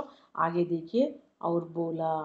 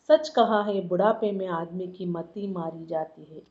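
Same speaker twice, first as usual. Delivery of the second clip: plain reading; 2 semitones lower than usual. Shown as a demonstration.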